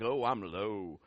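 low, deflated moan; mock despair. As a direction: sag into the words like someone at rock bottom. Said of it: "You're just like".

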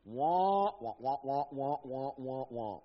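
low muffled wah-wah drone; Charlie Brown teacher. Retold or imitated. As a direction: mimic the muted trombone teacher. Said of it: "Charlie Brown's teacher".

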